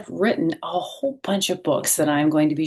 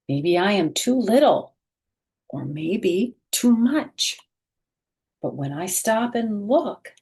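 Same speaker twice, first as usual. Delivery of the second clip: bright, expressive picture-book read-aloud; reading to children. A narrator's reading. Teacher reading a picture book aloud to children, expressive.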